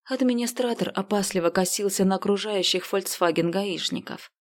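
ordinary delivery

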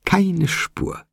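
very high delighted squeal without shouting; sky-high, elated repeat at ordinary volume; ecstatic squeal. A narrator's reading. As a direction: squeak it out, beside yourself with glee. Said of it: "außer sich vor Entzücken".

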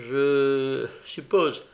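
high, loud, merry teasing; amused, boisterous jibe; laughing question. A narrator's reading. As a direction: ask it as a joke, voice climbing. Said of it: "demanda Charles Bates en riant".

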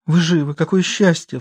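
high, sobbing stage joy; a sob of theatrical relief. Acted. Klara sobs to her husband, high and tearful. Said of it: "всхлипнула она".

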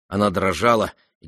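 ordinary delivery

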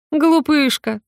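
high, patronising coo; condescending. A narrator's reading. Witch condescends to the naive girl, high and patronising. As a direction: talk down to her. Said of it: "снисходительно произнесла она".

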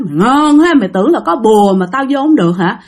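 lightly voiced jeering ghost; ghost taunting with laughter. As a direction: taunt them, breaking toward a laugh. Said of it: "nó vừa nói mà nó vừa cười". (giọng ma vừa nói vừa cười)

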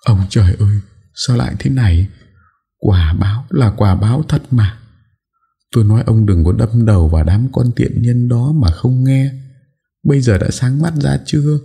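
a mild mock of wild crying; wailing lament. A narrator's reading. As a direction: wail at heaven and blame him. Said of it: "Bà cả gào khóc dữ dội".

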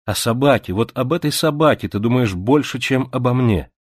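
jealous reproach. Acted.

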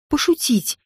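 plain reading voice

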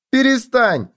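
high-pitched merry plea; overcome with laughter. A narrator's reading. Gopher begs bedbug to stop, helplessly amused. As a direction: plead in a leaping high pitch. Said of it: "заикался от смеха Суслик".

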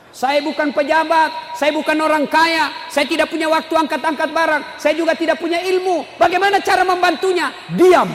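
high, insistent pulpit voice; forceful sermon delivery with a shouted finish; impassioned preaching. Real, not acted. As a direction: pile up the excuses, building to a loud punch.

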